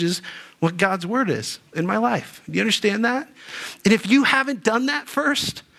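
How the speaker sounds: real fired-up preaching, pitch jumping up. Real, not acted. Preacher challenging congregation to put God's word first, fired up. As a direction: press the point with heated urgency. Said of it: "Sorry, I'm getting all fired up".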